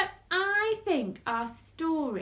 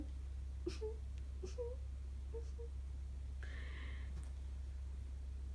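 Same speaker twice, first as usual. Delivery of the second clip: mock crying; 11 semitones higher, 13 dB quieter than usual. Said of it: "We do a sad face and cry".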